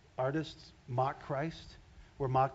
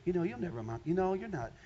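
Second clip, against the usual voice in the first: 1 taunting demon voice. Retold or imitated. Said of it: "it's just gonna sit with you".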